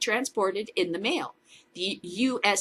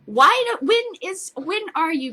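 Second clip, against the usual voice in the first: exasperated outburst; 9 semitones higher, 5 dB louder than usual. Real, not acted.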